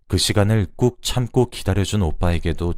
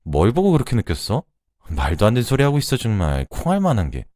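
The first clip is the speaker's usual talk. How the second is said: a mild, playful disbelieving scold, quicker in places; half-amused exasperation at a silly kid; incredulous scolding; 4 semitones higher than usual. Retold or imitated. 조카를 장난스레 나무라며 어이없다는 말투. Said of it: "제가 어이없다는 듯이".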